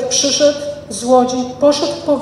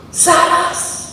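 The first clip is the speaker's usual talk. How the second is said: whispered Zaraz; 4 semitones higher than usual. Shown as a demonstration. Preacher to congregation, whispering "Zaraz!". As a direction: hush the word "Zaraz!" in awe. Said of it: "Nie miał chwilowego zaćmienia".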